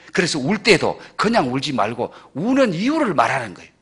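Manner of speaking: usual speaking voice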